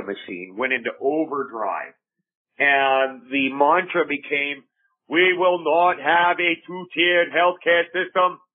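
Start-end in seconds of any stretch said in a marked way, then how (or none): 5.1-8.4 slow, raised speechmaking like a Kennedy; Kennedy politician voice. Retold or imitated. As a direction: proclaim it like a politician at a podium. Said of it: "I'm talking like a Kennedy there, that's my politician voice".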